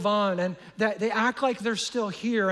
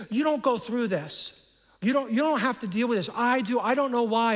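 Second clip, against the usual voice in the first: bitter complaint; 4 semitones higher than usual. Retold or imitated. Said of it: "They're bitter and they're angry".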